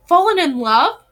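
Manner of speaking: high, delighted question; happy shriek. A narrator's reading. Blythe hearing of romance, happy mild shriek. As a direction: squeal it lightly with delight. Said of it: "Blythe shrieked happily".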